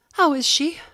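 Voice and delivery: high woman's voice. A narrator's reading. Lady asking after the corpse in a high voice. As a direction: ask high and anxious.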